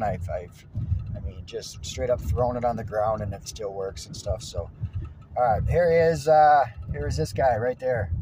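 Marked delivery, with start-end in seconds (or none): 5.4-8.1 talking while riding a bumpy road. Real, not acted. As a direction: voice jolted by road bumps. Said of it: "I'm on one heck of a bumpy road here".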